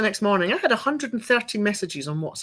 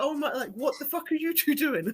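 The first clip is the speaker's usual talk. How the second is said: laughing; 7 semitones higher, 5 dB quieter than usual. Retold or imitated. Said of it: "Everyone's like".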